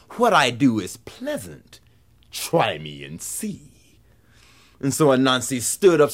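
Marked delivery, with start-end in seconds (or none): 0.1-3.7 slow invitation sinking low and soft; ominous whipping cord. A narrator's reading. Whipping cord luring Anansi to try it, ominous. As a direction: let the last words drop away slowly.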